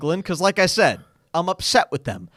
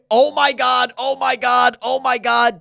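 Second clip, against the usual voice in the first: mild mock scream, raised pitch; screaming in panic; 4 semitones higher, 3 dB louder, slower than usual. Podcaster imitating passenger going insane, mock screaming. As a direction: imitate someone panicking, repeating it on one high note. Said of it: "this dude just kept screaming".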